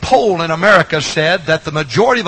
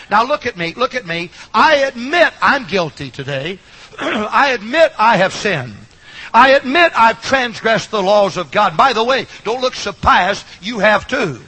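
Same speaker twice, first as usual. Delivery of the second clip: higher, deliberate gospel preaching; earnest preaching; 5 semitones higher than usual. Real, not acted. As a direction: preach it with measured emphasis, pitch lifted.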